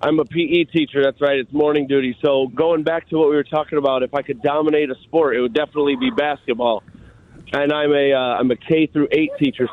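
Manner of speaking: caller in an echoing gym; roomy gym echo on the voice. Real, not acted. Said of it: "Sorry, I'm in the gym right now".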